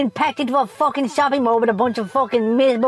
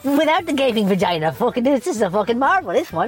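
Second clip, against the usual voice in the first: mock shopper; 5 semitones higher than usual. Mocking shopper finding Barbie doll.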